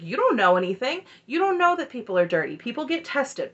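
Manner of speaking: lightly imitated aggressive pushback; aggressive retort. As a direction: retell an indignant comeback. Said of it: "he's very aggressive with her".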